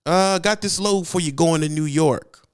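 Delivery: butter up the driver like a pushy dispatcher; overly friendly dispatcher. Shown as a demonstration. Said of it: "this is how it sounds".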